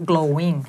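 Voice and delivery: glowing as "glo-wing", drawn out slowly; W, not V. Shown as a demonstration. Coach correcting a student's V, slow W in glowing. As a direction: glide through a W before -ing in glowing. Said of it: "คือไป V ทั้งคู่เลย".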